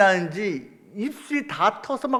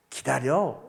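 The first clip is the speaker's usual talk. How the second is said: lightly voiced God. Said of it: "라고 말씀을 하십니다".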